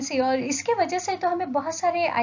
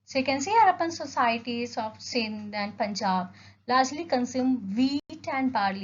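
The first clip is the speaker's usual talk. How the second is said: slow, deliberate dictation of slide text; measured classroom read-aloud; much slower than usual. Acted. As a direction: read each word out slowly for notes. Reads slide text slowly.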